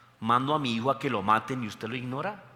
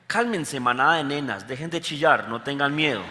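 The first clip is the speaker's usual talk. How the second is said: joking harsh Jesus. Pretend. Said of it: "eso lo diría yo".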